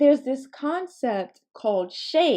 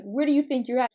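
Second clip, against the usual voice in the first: milder, slightly raised quizzing tone; literal question; 4 semitones higher, faster than usual. Retold or imitated. Mom as the child understood her, mildly sincere question. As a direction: ask it as if wanting an answer. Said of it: "I thought she was asking me".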